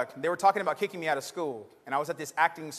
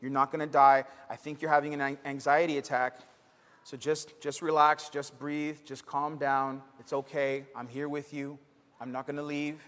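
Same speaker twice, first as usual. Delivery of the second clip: reassuring teacher; 2 semitones lower than usual. Retold or imitated. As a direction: soothe a panicking student. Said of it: "He said".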